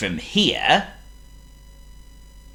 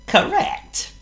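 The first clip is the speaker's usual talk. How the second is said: whisper. Acted. Narrator answers listeners.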